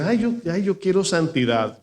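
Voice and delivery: a hint of a swooning churchgoer; mock pious sigh. Pastor mimics a believer claiming to want holiness, mock sigh.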